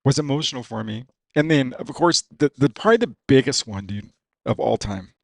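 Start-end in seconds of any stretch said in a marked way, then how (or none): 0.0-1.0 real tears pushing the voice higher and louder; tearing up. Real, not acted. Racer still tearful about his dad, choked up. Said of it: "sorry, I'm tearing up here".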